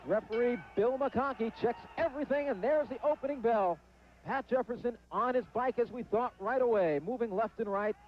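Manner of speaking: quick lively fight call; play-by-play commentary. Real, not acted. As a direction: call the opening round live.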